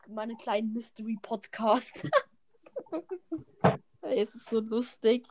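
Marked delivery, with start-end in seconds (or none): 0.1-4.0 laughing through the words; giggling while speaking; cracking up mid-line. Real, not acted. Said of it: "Ich krieg einen Lachflash".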